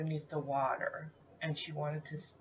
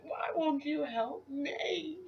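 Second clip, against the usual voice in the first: retold tearful plea; 10 semitones higher, slower than usual. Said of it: "And I'm screaming".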